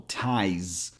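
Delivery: TIES ending in a buzzing Z; voiced Z ending. Shown as a demonstration. Teacher showing the last syllable, "ties" with a buzzed Z. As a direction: say "ties" with a voiced final Z, not S. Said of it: "your vocal cords are vibrating".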